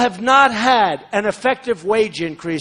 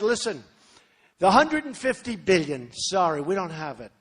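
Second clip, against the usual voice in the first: softer version; 4 semitones lower, 6 dB quieter than usual. Shown as a demonstration. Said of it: "You gotta be a little softer".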